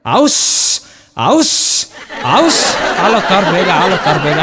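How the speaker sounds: sing-song call to the flock, dropping low at the end; a herder shouting to his sheep, homeward; shepherd's herding call. Retold or imitated. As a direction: drive the sheep home with a long calling cry. Shepherd driving sheep home.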